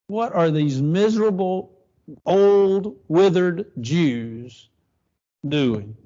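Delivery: slow, stretched words full of contempt; sarcastic scorn. Acted. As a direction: savor each insult, mocking. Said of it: "this is sarcasm at its greatest".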